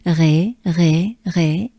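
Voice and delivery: "Ré" with French R, separated; short repeated French Ré; French R demo. Shown as a demonstration. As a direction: model Ré from the back of the throat. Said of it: "French R".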